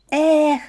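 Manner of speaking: a long weary sigh out; exhaled sigh. A narrator's reading. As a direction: let the breath go with a heavy eh. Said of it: "видихнув Стась".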